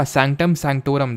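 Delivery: sanctum sanctorum, each syllable drawn out very slowly; teacher dictating "sanctum sanctorum" word by word; slow clear term. Shown as a demonstration. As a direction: spell the term out slowly for the class. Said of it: "sanctum sanctorum के नाम से जानते हैं".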